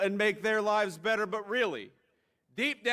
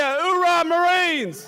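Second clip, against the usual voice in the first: louder, higher battle cry; gung ho; 8 semitones higher, 10 dB louder, much slower than usual. Real, not acted. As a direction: really belt the hoorah. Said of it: "I didn't hear you".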